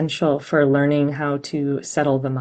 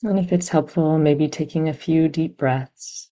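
calm, even meditation guidance with long pauses; guided meditation. Real, not acted. Meditation teacher settling listeners onto their anchor, calm and unhurried. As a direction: gently guide them into stillness, leaving long silences.

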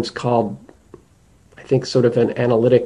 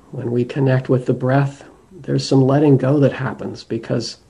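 measured meditation guidance with long pauses; guided meditation. Acted. Teacher guiding listeners to attend to the breath, guided meditation. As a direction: lead them gently inward, leaving space between phrases.

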